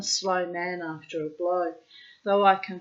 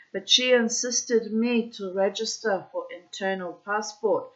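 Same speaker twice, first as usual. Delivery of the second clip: put-on Russian accent; 3 dB louder than usual. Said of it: "I'm putting in the Russian accent".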